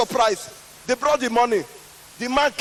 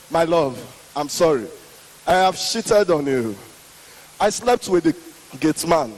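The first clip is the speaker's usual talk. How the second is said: wife kneeling to confess to her husband; wife's confession; 6 semitones lower than usual. Retold or imitated. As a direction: beg forgiveness gently.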